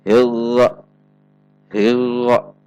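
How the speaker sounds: "hirro" with the r held smooth, no roll at all; trill removed. Shown as a demonstration. Example of the vibration removed, untrilled r. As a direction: drop every vibration from the r in "hirro". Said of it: "Contoh yang dihilangkan adalah".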